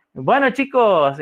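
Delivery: slow, drawn-out cheery call to a class; enthusiastic. Retold or imitated. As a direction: greet the students with mild teacherly enthusiasm. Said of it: "con todo el entusiasmo del mundo".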